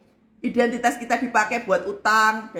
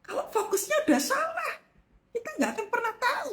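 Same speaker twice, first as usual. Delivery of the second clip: laughing; 11 semitones higher, 5 dB quieter than usual. Real, not acted. Laughing high aside.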